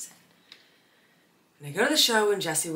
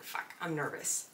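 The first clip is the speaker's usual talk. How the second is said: nervous whisper; 6 dB quieter than usual. Retold or imitated. Nervous whisper to friend in seat.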